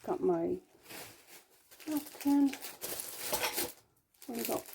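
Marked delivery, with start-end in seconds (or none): none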